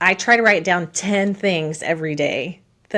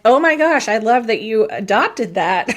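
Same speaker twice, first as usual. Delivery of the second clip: delighted. Retold or imitated. Retells delighted reaction to y'all.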